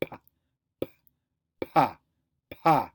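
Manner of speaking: pa with no buzz in the throat; unvoiced pa. Shown as a demonstration. Teacher demonstrating an unvoiced p. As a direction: puff out pa, no voicing. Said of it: "when you go".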